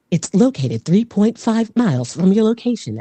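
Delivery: even, synthetic assistant delivery. Shown as a demonstration. Answering the rapper's Waffle House question, AI voice. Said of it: "more of an A I voice".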